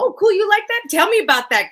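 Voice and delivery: high, loud eager interest; light up with curiosity. Acted. Answering a friend's taste at happy hour, high and eager.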